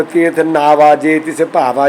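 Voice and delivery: slow "ਨਾਵਾ" and "ਭਾਵਾ" with no h and no nasal ending; literal misreading. Shown as a demonstration. Teacher shows objectors the as-written reading, slow and unnasalised. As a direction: read "ਨਾਵਾ", "ਭਾਵਾ" exactly as spelt, open oral -aa. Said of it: "ਤੇ ਕਿਤਨਾ ਅਸ਼ੁੱਧ ਹੈ".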